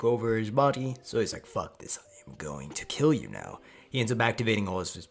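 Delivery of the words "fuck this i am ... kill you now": low, slow, rasped menace; mock villain voice, dark and drawn out; menacing threat. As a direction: growl it slowly like a possessed villain. Acting enraged villain's death threat.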